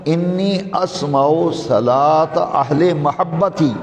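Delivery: slow, drawn-out Arabic recitation; hadith recitation. Real, not acted. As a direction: stretch the long vowels, measured and deliberate.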